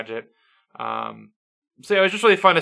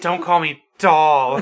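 slow, louder, laughing put-on sultry voice; sultry Lola imitation; 5 dB louder, much slower than usual. Co-host mocking Lola Bunny's line, slow laughing sultry voice. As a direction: drag it out, mocking the sexy line. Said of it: "How was it?".

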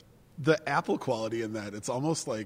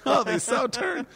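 oh pitched way up and louder through a laugh; laughing at pun; 13 semitones higher, 6 dB louder than usual. Real, not acted. Host laughing at his co-host's wine pun, high and loud. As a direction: crack up while repeating the pun.

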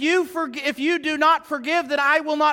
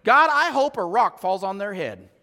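mock prayer; 4 semitones lower than usual. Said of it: "what kind of prayer are you doing".

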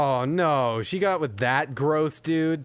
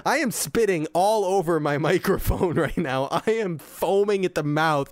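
fast, raised, spluttering tirade against the movie; furious rant; 4 semitones higher than usual. Real, not acted. Reviewer ranting at the movie he hated, raised and furious. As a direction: rant like you're foaming at the mouth. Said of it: "I'm so angry".

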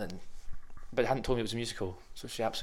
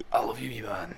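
whispered Glaswegian catchphrase; Limmy impression; 2 semitones higher than usual. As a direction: breathe it out like a Scottish comic. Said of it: "I could do a Limmy".

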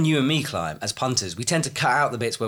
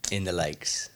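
whispering; 4 semitones lower, 6 dB quieter, slower than usual. Real, not acted. Whispered aside.

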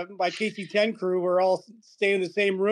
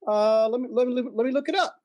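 lightly voiced clerk, higher and stumbling; imitated puzzled clerk; 6 semitones higher than usual. Job placement clerk checks a request, lightly imitated hesitation. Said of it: "He goes".

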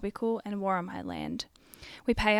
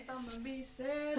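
whispering; 4 semitones higher, 9 dB quieter than usual. Real, not acted. Whispering song words.

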